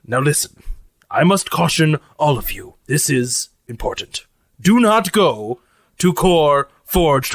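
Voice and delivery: solemn, halting warning in a lightly put-on voice; grave robot cook. Lucy warns crew off dishonored place, grave formal character voice. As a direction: caution them earnestly, phrase by phrase.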